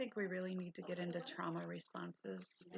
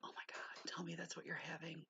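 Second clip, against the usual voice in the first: whisper; 6 dB quieter than usual. Real, not acted. Begging about the holiday meal.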